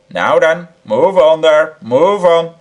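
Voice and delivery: loud brisk order; calling out. Acted. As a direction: herd them on. Policeman moves crowd along.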